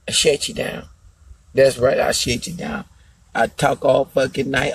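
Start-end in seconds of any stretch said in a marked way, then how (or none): 0.1-0.9 soft unvoiced whisper of the boast. Shown as a demonstration. Boasting to viewers, whispered. 2.0-2.9 soft unvoiced whisper of the boast. Shown as a demonstration. Boasting to viewers, whispered.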